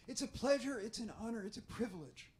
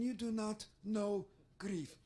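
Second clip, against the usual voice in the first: put-on Israeli accent. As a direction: drop the pitch and close in an accent. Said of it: "So sometimes I try to mimic her".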